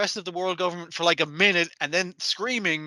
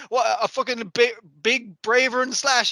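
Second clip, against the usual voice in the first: excited pilot; 6 semitones higher than usual. Retold or imitated. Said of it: "Asami getting in and is like".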